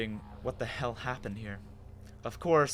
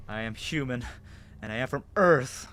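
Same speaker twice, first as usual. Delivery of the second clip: frustrated; 5 dB louder than usual. Acted. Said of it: "I felt the frustration taken over me".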